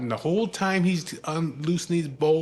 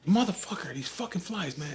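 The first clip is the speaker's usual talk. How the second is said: losing it; 5 semitones higher, 3 dB quieter than usual. Retold or imitated. Father cursing the biting flies, losing it. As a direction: mimic exasperation at pests. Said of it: "he loses shit".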